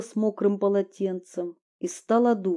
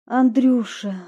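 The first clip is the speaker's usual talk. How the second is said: timid, higher, slow confession; fearful; 5 semitones higher, 4 dB louder, slower than usual. Acted. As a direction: admit it slowly, afraid. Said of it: "со страхом проговорила".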